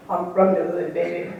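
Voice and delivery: a half-hearted, not-too-good deep-voiced singer imitation; laughing through a weak imitation of a singer; singer impression. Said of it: "not too good".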